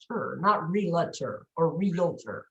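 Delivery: "Realtor" in two syllables, then the wrong forms. Shown as a demonstration. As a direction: contrast "realtor" right with the wrong three-syllable takes. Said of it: "Some people pronounce realtor wrong".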